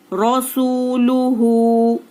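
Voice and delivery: रॉ सू लू हू drawn out slowly, रॉ thick and full; slow chant, रॉ heavy and each vowel stretched. Shown as a demonstration. Teacher showing students the heavy रॉ, chanted slowly. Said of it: "रॉ पुर पढ़ी गई".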